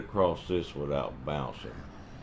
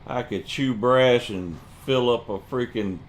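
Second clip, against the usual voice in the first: irritated; 4 semitones higher than usual. Real, not acted. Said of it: "I'm so irritated right now".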